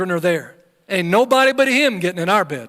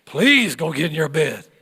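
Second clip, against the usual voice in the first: put-on laughing, pleading parent telling a child to bed; half-laughing plea of a tired parent; weary parent; 4 dB louder than usual. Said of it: "anybody, parents".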